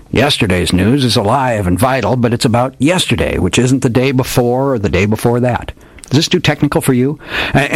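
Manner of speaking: put-on hardboiled old detective. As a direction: ham it up like an old radio gumshoe. Old detective tells his tale.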